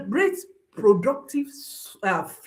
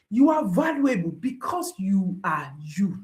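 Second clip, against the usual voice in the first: whisper; 4 semitones lower than usual. Acted. Affirming child's worth.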